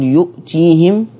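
"يؤتيهم" drawn out slowly and clearly; Hafs reading. Shown as a demonstration. الشيخ يقرأ "يؤتيهم" برواية حفص ببطء. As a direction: stretch "يؤتيهم" the way Hafs reads it. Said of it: "حفص يقول".

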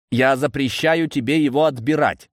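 cold command. A narrator's reading. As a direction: forbid it coldly. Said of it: "холодно приказал я". (холодный твёрдый приказ)

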